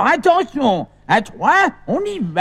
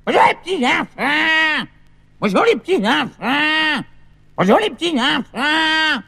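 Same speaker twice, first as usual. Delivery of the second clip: shouted greeting. Acted. Grandpa shouting hello to absent children. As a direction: call out to children far away. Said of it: "pourquoi tu cries comme ça".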